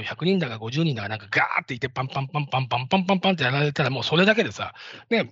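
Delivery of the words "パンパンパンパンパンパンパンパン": rapid-fire run of "pan" sounds; quick percussive vocal imitation of shamisen; imitated shamisen strumming. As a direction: mimic a massed shamisen attack, fast. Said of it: "後ろに津軽三味線の人".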